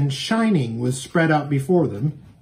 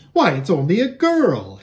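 louder surprised exclamation; exclaiming; 4 semitones higher, 4 dB louder than usual. Acted. Shasta realising the rider is a girl, surprised. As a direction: blurt it out in surprise. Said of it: "he exclaimed".

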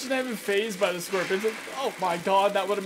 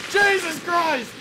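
slow, higher, louder cry; startled exclamation; 7 semitones higher, 6 dB louder, much slower than usual. Real, not acted. Gamer cries out at a scary jump, slow and loud. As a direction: drag out the shock.

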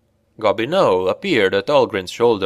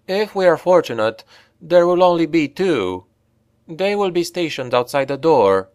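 higher, sad elf woman voice; 7 semitones higher than usual. A narrator's reading. Elf warning Brunner of two guards, higher voice. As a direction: lift the voice for the grave elf.

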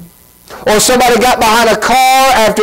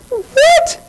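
mock shock.

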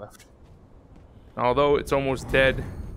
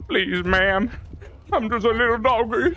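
cartoon dog; 8 semitones higher than usual. Begging enemy as a dog.

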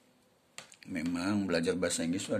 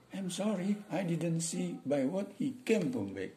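servant voice; 7 semitones higher, slower than usual. Acted. Servant apologizing to his boss.

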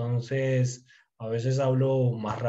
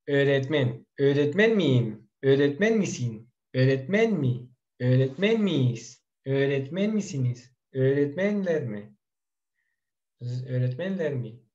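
deliberate language-drill delivery, each question set apart; careful teaching pace. Shown as a demonstration. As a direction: model each Turkish question form unhurriedly for learners. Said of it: "menor rapidez".

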